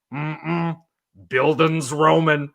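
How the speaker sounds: lightly voiced Cajun professor; a hint of Cajun drawl on the word; Cajun accent. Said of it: "he said in his Cajun accent".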